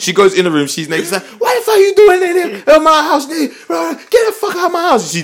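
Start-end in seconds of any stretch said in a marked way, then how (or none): 1.4-5.1 mock, shrill, very high, loud, frantic, panicked yelling. Retelling a woman finding a girl naked in her house, imitating a panicked woman. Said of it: "she's panicking".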